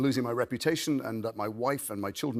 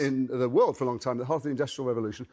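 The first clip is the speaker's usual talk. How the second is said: blocked-nose Birmingham accent. Shown as a demonstration. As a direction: talk Brummie, as if you can't breathe through the nose. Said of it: "Birmingham, the most polluted city".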